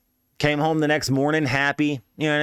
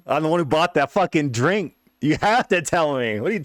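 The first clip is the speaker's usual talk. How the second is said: laughing insistence; 3 semitones higher than usual. Retold or imitated. Pressing friend, laughing.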